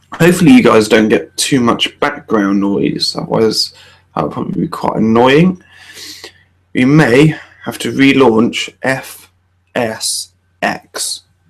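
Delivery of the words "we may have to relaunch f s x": very slow, careful, cautious wording. A first-time streamer, with the flight sim acting up, speaks very slow and cautious. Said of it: "I said that very slowly, very cautiously".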